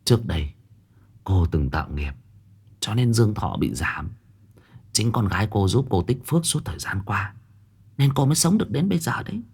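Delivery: a hint of a grave old seer delivering bad news quietly; old fortune-teller, hushed. Old woman explains karma.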